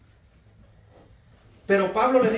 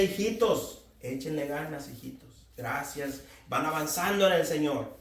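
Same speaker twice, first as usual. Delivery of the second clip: gentle, lowered voice of encouragement; encouraging; 3 semitones lower, 4 dB quieter than usual. Acted. Apostles addressing young believers, gently encouraging. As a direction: softly cheer them on like a fond elder. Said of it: "Los animaban en el Señor, les decía".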